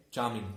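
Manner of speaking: charming said as chaa-ming with no R sound; R silent in charming. Shown as a demonstration. Teacher showing students that charming has a silent R. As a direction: drop the R in charming and stretch the aa. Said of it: "Here R is silent".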